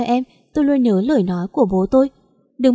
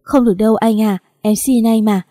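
crying plea; 3 dB louder than usual. Acted. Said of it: "Em bật khóc".

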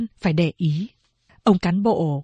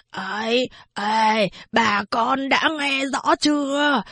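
put-on blind old man begging the villagers to see the truth; 3 semitones higher than usual.

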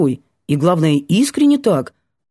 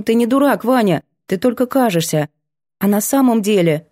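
put-on higher girl's voice, sheepish and quick; apologetic girl; 4 semitones higher than usual. Girl apologizing to Vanya for calling him a fool. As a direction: apologize sweetly, a little cheeky.

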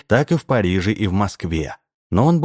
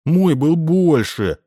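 put-on a greedy kid hollering for more; boy yelling; 8 semitones higher, slower than usual. A narrator's reading. Boy shouting at Borovkov, high slow child's yell. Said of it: "завопил он".

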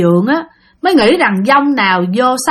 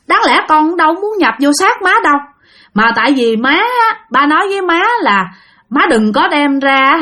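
lightly higher pleading son; dead son's voice; 3 semitones higher than usual. Acted. Dead son speaking through his mother to warn his father, earnest. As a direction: explain gently, as the dead boy.

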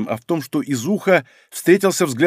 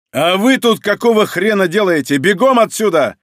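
loud angry bark; 3 semitones higher, 4 dB louder than usual. Acted. Izukha barks at subordinates who stayed behind, loud. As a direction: snap at the subordinates. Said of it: "рявкнул".

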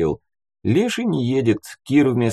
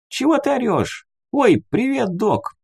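put-on high-pitched girl's voice; voiced teen girl calling back; teenage girl; 14 semitones higher than usual. A narrator's reading. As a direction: answer as a fifteen-year-old girl, high and lively. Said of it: "высунулась девчонка лет пятнадцати".

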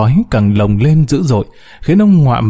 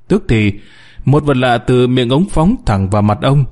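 ordinary delivery

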